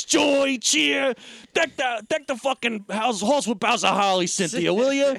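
high, hammed-up mock rant; exasperated outburst. Imitating a husband fed up with Cynthia, exasperated outburst.

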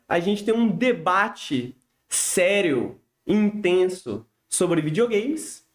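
slow, mock-solemn announcement; mock serious. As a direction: drag it out with playful gravity. Ironic hype of the format.

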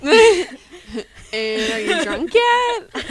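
giggling through the question; teasing, laughing high. Real, not acted. Teasing about drinking game.

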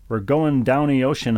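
Baltimore "downy ocean", drawn out; Baltimore accent. Retold or imitated. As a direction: Baltimore hun twang, slow and loud. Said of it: "is a popular expression".

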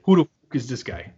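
lightly faked Irish accent. Host imitating an Irish fighter's scorn, faked Irish accent. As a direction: say it with a bad Irish "fook". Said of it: "You say it with an Irish accent".

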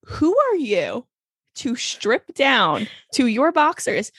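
slow, drawn-out mock indignation; hammed-up scandalised telling-off; mock outrage. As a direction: scold slowly, word by word, in play. Mock scolding over music video.

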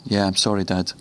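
head down, mumble sorry to your dad; a lightly played sheepish son; sheepish apology. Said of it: "hangs his head and says".

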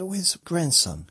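put-on high, loud, slow old-lady call; imitating nan calling. Nan calling across the house for her grandson, high and loud. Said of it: "And she said".

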